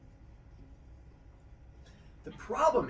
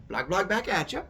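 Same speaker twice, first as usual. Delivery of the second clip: mock monster babble; 5 semitones higher, 4 dB louder than usual. Zeus mimicking the monsters.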